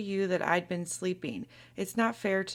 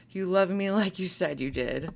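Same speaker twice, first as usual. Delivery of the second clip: bitter laugh. Real, not acted. Bitter repeat of her words.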